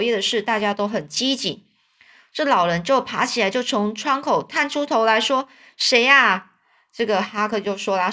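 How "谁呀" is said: a loud call of "谁呀" through the window; sharp, louder query from a woken old man. Acted. (大声喊问)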